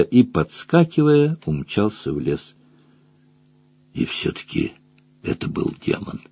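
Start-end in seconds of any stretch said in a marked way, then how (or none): 3.9-6.2 hushed, voiceless whisper. A narrator's reading. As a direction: whisper it under your breath. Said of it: "прошептал Мадж". (шёпотом, еле слышно)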